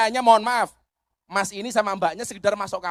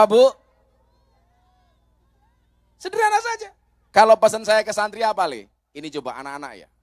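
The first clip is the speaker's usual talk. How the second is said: ordinary talk, nothing marked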